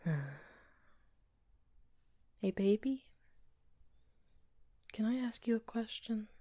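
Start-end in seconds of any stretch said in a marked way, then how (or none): 2.4-6.3 soft bedtime whisper. Acted. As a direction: hush it like a partner in bed. Whispering in bed.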